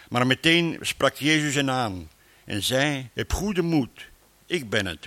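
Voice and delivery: measured scripture reading voice; reading scripture aloud from the pulpit; Bible reading. Acted. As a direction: read the passage to the congregation. Reads Bible passage aloud.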